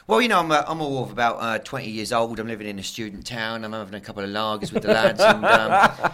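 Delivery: put-on English accent of a young lager lad; English fan accent. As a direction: play the English student fan, accent and all. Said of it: "generic Nuffy England shit banter fan".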